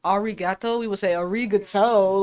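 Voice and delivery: put-on "arigato" said with a thick American accent; annoying learner pronunciation. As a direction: overdo "arigato" like an irritating beginner. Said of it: "we would say it so annoyingly".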